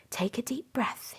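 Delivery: soft whispered encouragement; hushed, kind teacher whisper. A narrator's reading. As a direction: whisper it gently to a nervous child. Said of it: "he whispered".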